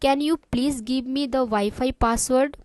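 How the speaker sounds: very slow guest request; slow and clear. Shown as a demonstration. Teacher voicing the guest asking for Wi-Fi, slowly. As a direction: lay each word out for the learner. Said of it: "मैं इतना आराम आराम से इसलिए बोल रही हूँ".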